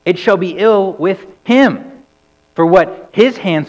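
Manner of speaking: slow, loud prophetic denunciation; crying out. Acted. Prophet Isaiah cursing the wicked, slow and loud. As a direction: pronounce doom on the wicked. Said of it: "Isaiah had cried out".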